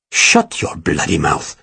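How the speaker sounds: low, slow, menacing snarl; low menacing villain. A narrator's reading. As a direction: crush her with a quiet threat. Ferragus threatens Sarah.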